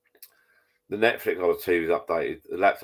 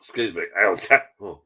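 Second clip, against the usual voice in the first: choking. Real, not acted.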